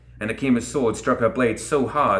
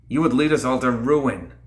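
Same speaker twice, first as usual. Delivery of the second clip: shouted; 3 semitones higher than usual. Acted. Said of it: "Lilith shouted back".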